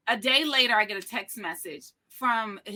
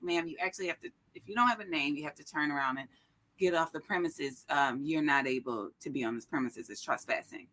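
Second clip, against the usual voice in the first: stern guard; 6 semitones lower, faster than usual. Retold or imitated. Guard ordering her off premises.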